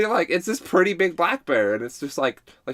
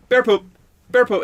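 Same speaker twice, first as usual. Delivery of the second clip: Matt; 9 semitones higher, 7 dB louder than usual. Retold or imitated. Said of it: "Matt joking around was like".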